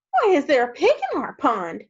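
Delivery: baffled frogs' outcry; startled frogs. Acted. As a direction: demand it in mild alarm. Frogs react to the pig.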